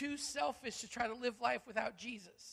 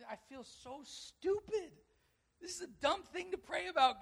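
sheepish self-mock; 7 semitones higher than usual. Embarrassed prayer.

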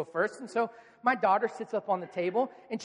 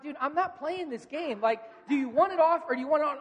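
higher, insistent, speeding into an ultimatum; fed-up dad; 5 semitones higher, 3 dB louder than usual. Retold or imitated. Dad to wavering son about the Band-Aid, fed up. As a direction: act out a parent losing patience.

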